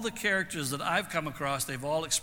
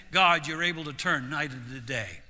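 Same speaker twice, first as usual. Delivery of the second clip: praise prayer. Retold or imitated. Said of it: "What do I say? I say".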